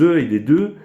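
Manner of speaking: "e" as a buzzed "ze", "de" as a plain d; French-style "e" and "de" replacing the th; French substitute sounds. Shown as a demonstration. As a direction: say "e" and "de" with French z and d in place of English th. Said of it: "en substitution du the anglais".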